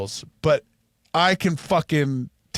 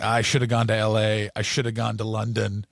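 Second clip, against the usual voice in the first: put-on bitter drunk guy; 6 semitones lower than usual. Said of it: "would say things like".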